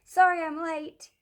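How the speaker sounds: bursting in with a happy yell; shouting. Acted. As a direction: call it out as she bursts in.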